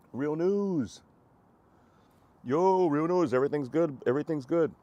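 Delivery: high, loud hey to a friend; excited greeting. Real, not acted. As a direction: call out the name brightly. Greeting chat viewer.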